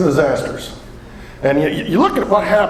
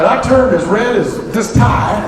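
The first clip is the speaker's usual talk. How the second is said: laughing; 6 semitones higher, 4 dB louder, slower than usual. Real, not acted. Laughing, embarrassed punchline.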